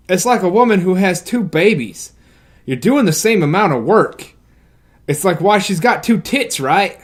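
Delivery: lightly voiced redneck dad; southern accent. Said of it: "gonna give him a frickin', like, southern accent".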